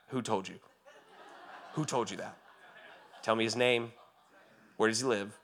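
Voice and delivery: chuckling through a mock-angry father's threat; laughing protective dad. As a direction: play the outraged dad, laughing as you go. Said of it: "he's like".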